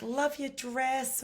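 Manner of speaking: high, slow, sing-song mock American compliment; hammed-up sweet American stranger; gushing American. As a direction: gush it like an overfriendly New Yorker. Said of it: "they're always like".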